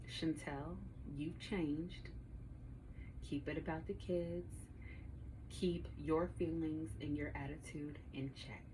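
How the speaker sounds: soft, low inner pep talk; calm yourself down under your breath; self pep talk. Retold or imitated. Telling herself to stay calm on the call, quiet and low. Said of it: "I'm really telling myself".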